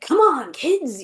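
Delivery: animated grandpa beaver, imitated; rally them like a cartoon grandpa. Imitating the American beaver calling the kids, animated character. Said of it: "more of a character".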